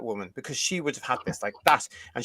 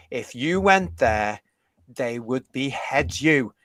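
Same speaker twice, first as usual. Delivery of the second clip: slow angry scorn; 3 semitones lower, slower than usual. Real, not acted. Angry tirade at activists.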